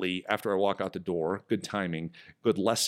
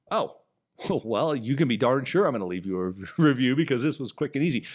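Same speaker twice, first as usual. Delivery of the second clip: chuckling through the promise to leave a review; laughing delight; 3 semitones higher than usual. Retold or imitated. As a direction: laugh as you gush about quick service. Happy customer promises a review.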